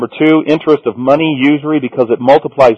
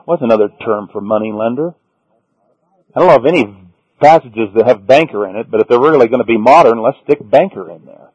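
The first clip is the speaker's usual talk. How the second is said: ordinary talk, nothing marked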